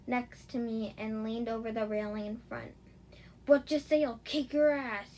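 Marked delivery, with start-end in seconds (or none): 3.5-5.2 loud furious shout; angry shout. Acted. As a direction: yell the threat at her. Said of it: "he shouted angrily".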